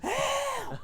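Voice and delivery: high, loud hammed-up wail for help; lying in the road, calling out for help in a high, hammed-up wail; mock cry for help. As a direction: yell it up high like a kid in a panic. Retold crying for help on road.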